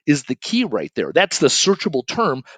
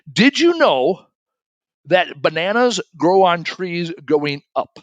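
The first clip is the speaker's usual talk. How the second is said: high, slow, know-it-all dad quoting trivia; mock know-it-all dad; 4 semitones higher, 3 dB louder, slower than usual. Dad quizzing family at game night, smug and slow. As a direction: ham up dad's smug certainty. Dad's confident trivia question retold.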